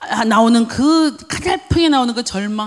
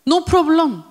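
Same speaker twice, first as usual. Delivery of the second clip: higher, clearer "No problem"; raised restatement; 4 semitones higher, much slower than usual. Shown as a demonstration. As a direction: lift the voice to declare it. Same answer repeated, now declared.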